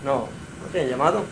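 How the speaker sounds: put-on a sleepy father brushing the boy off; mild father's reply. A narrator's reading. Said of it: "el padre responde". (el padre contestando bajo y rápido)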